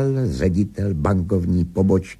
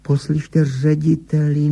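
higher-voiced mild protest; objecting; 8 semitones higher than usual. A narrator's reading. Higgins interrupts the bank director, mildly protesting. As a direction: break in with an objection. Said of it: "namítl Higgins".

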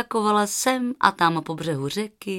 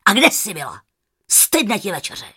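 louder scolding aunt; grumpy aunt; 5 dB louder than usual. Acted. Grumpy aunt scolds Rozárka that dinner is cold, louder. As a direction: scold the late girl.

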